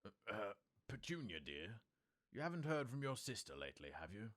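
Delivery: hesitant, stammering start then a quick rush; a hint of a nervous husband; mild nervousness. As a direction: ask it nervously, hurrying past the question. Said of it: "He cleared his throat nervously".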